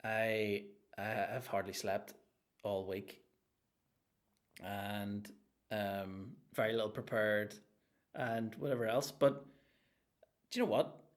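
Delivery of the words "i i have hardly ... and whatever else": host mocking his own weekly excuses, low and tired; mock tired moan. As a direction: drag it like you haven't slept. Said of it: "I'm like".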